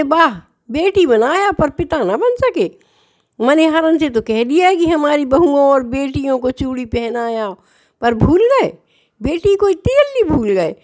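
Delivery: a divine daughter chiding her forgetful father; young girl's voice, lightly hurt and teasing; Radha Rani as hurt daughter. Acted.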